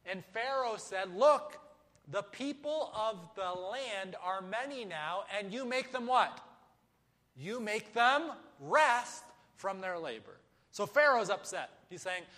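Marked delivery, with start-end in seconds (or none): 1.2-1.6 sharp loud, higher outburst; angry Pharaoh. Acted. Pharaoh voiced, upset. 2.1-10.4 indignant Pharaoh. Acted. Pharaoh voiced, upset.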